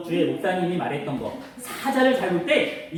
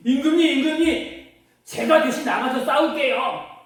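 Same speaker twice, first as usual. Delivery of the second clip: lightly voiced small boy, pitched up; a higher, eager plea to fight; eager young David; 5 semitones higher than usual. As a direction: pipe up eagerly to the king. Young David volunteers to the king.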